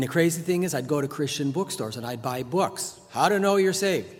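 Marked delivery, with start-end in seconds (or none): 3.1-4.1 mock title.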